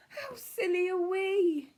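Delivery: loud, high, laughing outcry; laughing proclamation. Acted. Bruce laughing to Cyril at how silly they were. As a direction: burst out laughing at yourselves. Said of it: "he proclaimed".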